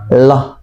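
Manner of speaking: "Allah" cut down to a short "loh"; lam terlalu cepat dilepas. Retold or imitated. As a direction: drop the held L, just the end of "Allah". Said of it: "cuman Allah doang". ("Allah" pendek, lam tidak ditahan)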